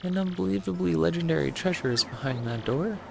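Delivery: blustering villain, pitch leaping on exclamations; excitable Bowser. Acted. Bowser hears of the Thousand Year Door, blustering. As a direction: go from baffled to greedy bluster.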